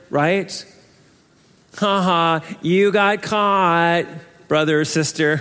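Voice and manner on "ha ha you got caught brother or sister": mild gloating. Shown as a demonstration. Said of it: "You're gloating over them".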